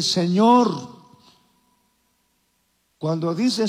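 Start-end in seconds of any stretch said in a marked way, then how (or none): 0.0-0.9 sad plea. Retold or imitated. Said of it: "tristemente le dice".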